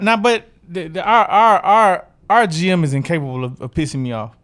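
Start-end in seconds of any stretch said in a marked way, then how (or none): none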